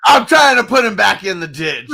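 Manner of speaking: loud, laughing, high; laughing shout. Real, not acted. Teasing friend about Uncle Buck, laughing shout. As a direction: yell it through laughter. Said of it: "laughing shout at friend".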